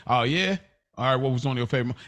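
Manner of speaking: rushed, careless question; fast, dismissive ask; curt, offhand ask. Shown as a demonstration. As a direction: toss the question off quickly without warmth. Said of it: "the approach could come off like that".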